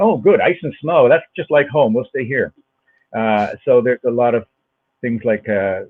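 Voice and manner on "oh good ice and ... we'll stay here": Scandinavian-Minnesotan lilt. Retold or imitated. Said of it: "Scandinavian immigrants ... went".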